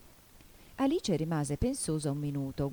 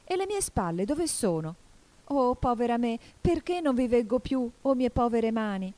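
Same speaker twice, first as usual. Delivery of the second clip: higher, louder acted wail of dismay; distressed lament; 7 semitones higher, 4 dB louder than usual. Alice cannot see her hands, distressed lament. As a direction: lament your loss aloud.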